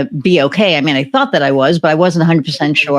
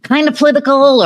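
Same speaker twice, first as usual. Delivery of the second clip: eager pleading; 8 semitones higher, faster than usual. Retold or imitated. Pitching a joint podcast to Kofi.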